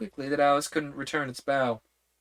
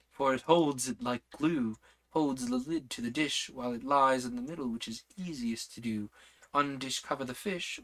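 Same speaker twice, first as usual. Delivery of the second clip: lightly voiced queen reciting a riddle; a gentle hint of the White Queen's rhyme.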